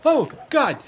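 high, loud, breaking cries; distraught mother crying out; sobbing panic. Acted. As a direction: wail it out in panic. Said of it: "Amelie is just crying".

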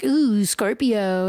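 very slow, drawn-out imitation swoon; mock swooning. Imitating people reacting to a sexy star sign, mock swooning. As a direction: imitate someone impressed, stretching it out. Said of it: "people be like".

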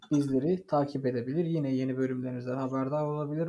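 light announcer read; announcer outro. Acted. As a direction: wrap up like a radio host. (podcast kapanış anonsu)

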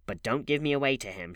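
whiny entreaty; whining plea. A narrator's reading. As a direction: plead with a touch of whine. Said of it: "she whined".

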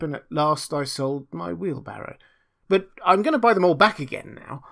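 lightly voiced earnest simple fellow; apologetic little Hans. Hans explaining his hard winter to the miller, mildly apologetic. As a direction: explain it with a touch of sheepishness.

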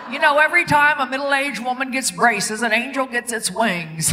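Jimmy Stewart. Retold or imitated. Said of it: "this is Jimmy Stewart from It's a Wonderful Life".

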